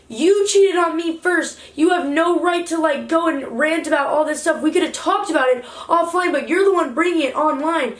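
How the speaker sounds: firing back at him, each word deliberate; heated retort. Retold or imitated. Arguing back at cheating boyfriend.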